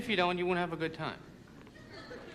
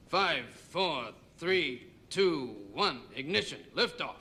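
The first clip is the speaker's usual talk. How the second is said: mock countdown; much slower than usual. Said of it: "Small, underdeveloped country trying to launch a satellite".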